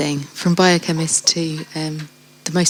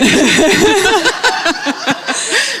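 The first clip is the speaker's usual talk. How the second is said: a long bright burst of real laughter, much higher; 13 semitones higher than usual. Real, not acted. Host laughing at the guest's happy news.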